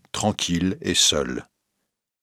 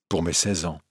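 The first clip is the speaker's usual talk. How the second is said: softer, lower dreamy murmur; 3 semitones lower, 7 dB quieter than usual. Acted. Wife recalling a gift, dreamy soft murmur. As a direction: drift into the memory, murmuring. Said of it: "murmura-t-elle, rêveuse".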